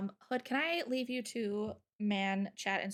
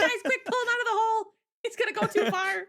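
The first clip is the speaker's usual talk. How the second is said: laughing mock alarm; 11 semitones higher, 6 dB louder than usual.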